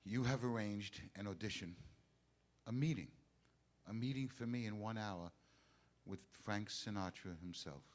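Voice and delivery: low and deliberate, in separated phrases; slow, careful repeating back. Acted. Singer repeating his manager's news back to him, slowly. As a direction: spell it out piece by piece in disbelief. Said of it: "Say it again slowly. I'm gonna repeat it back".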